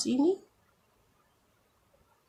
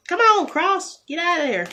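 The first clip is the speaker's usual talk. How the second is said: frustrated; 10 semitones higher, 6 dB louder than usual. Real, not acted. Decoration stuck, frustrated.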